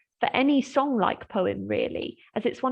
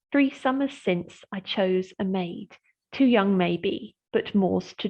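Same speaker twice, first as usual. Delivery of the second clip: slow, measured reading of verse; poem reading. Shown as a demonstration. Lecturer reading the opening lines to students, slow and measured. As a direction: read the lines slowly so the rhythm shows.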